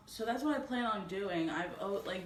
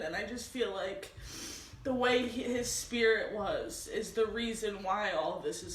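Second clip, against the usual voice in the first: ugly crying; 2 semitones higher, 3 dB louder than usual. Real, not acted. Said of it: "sorry for the ugly crying face".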